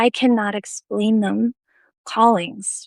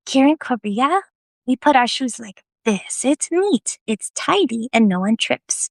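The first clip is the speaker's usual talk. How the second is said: higher-pitched, lightly voiced teacherly explanation; gentle correction; 3 semitones higher than usual. Judy teaches the newcomer about shoes, gently correcting. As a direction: lightly imitate a patient house-rule reminder.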